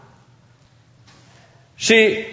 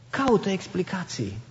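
echoed much softer, near a hush; soft repeat; 3 semitones lower, 12 dB quieter than usual. Shown as a demonstration. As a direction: drop the voice and repeat it gently to the listener. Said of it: "ea caută explicații".

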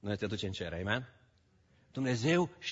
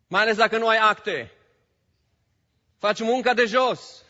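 loud, raised preaching voice; preaching at full force; 11 semitones higher, 10 dB louder than usual. Acted. Pastor urging his church, preaching loud. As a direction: drive it home to the congregation.

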